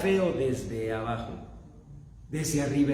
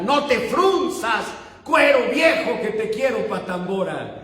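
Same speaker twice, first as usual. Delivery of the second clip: mock yell; 5 semitones higher, 3 dB louder than usual. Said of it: "Ella soltaba nuestra frase familiar".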